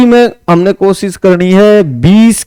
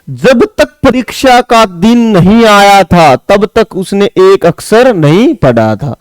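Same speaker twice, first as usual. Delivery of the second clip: slow question reading; 3 semitones higher, slower than usual. Shown as a demonstration. Reads the exam sentence.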